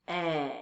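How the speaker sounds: "E" held alone, softly; lone sustained "E"; isolated vowel sound. Shown as a demonstration. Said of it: "We hear O".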